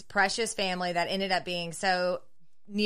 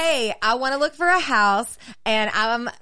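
sultry client voice; 4 semitones higher, 7 dB louder than usual. Retold or imitated. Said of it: "they're like".

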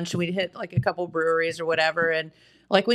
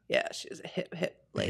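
hushed stoner voice; 11 semitones lower, 11 dB quieter than usual. Pretend. Stoner joke.

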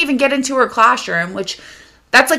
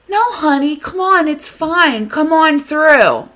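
lightly voiced coaxing stranger, pitched higher; mock coaxing man; 5 semitones higher than usual. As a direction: coax in a higher mocking voice, drawing out the end.

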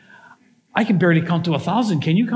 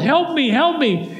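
high, slow, drawn-out cries for help; acted yell for help; 8 semitones higher than usual. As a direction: plead up from the hole, stretched out. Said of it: "But he just yelled".

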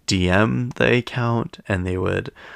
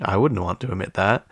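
ordinary talk

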